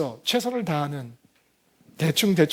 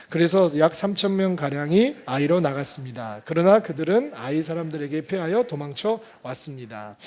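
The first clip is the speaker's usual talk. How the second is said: scripture reading; 2 semitones lower than usual. A narrator's reading. Preacher reads the Joshua passage to the congregation, scripture reading. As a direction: read it out in measured phrases.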